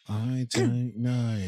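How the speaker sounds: slow, stretched attempt at a Liverpool accent; mock accent of a famous Liverpool band. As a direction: draw it out in wobbly, band-style Scouse. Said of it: "Is that your Beatles accent?".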